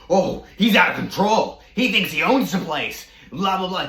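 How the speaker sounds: mocking the roommate on the phone in a high whine. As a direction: imitate him as a high complaining whiner. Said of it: "And he's like".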